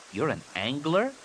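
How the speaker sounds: put-on can't believe the old warrior fishes; incredulous. A narrator's reading. Anakin asks the warrior, incredulous. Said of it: "Anakin said incredulously".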